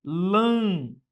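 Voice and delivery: Lâmpada with the first syllable pushed hard; Lâmpada, stressed on the antepenult; stress on LÂM. Shown as a demonstration. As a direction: lean on LÂM in Lâmpada, let the rest fall away. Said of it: "A sílaba tônica recai sobre a antepenúltima".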